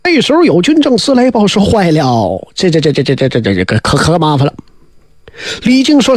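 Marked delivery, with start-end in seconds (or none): 1.7-4.5 low, stuttering, scared officer; a frightened messenger stammering bad news; panicked stammer. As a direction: trip over every word in fright. Panicked officer stammers his report.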